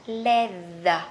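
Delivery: slow LEATHER with the tongue out on a buzzed th; voiced TH. Shown as a demonstration. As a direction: draw out "leather", vibrating the th on the tongue. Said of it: "đọc như chữ đờ nhưng mà đưa lưỡi ra".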